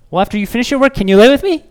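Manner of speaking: put-on high, whiny little kid asking; a hint of a clingy kid; pleading child. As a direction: beg like a small child at bedtime.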